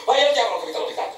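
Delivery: a stormy captain berating his partner; angry Peleg. A narrator's reading. Peleg raging at Bildad.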